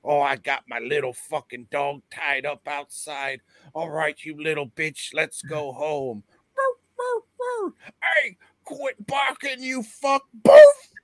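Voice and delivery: put-on high, loud drunken British lout ranting; hammed-up British accent yelling at his dog; angry British bloke. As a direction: play a belligerent working-class Brit. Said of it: "one of those blokes".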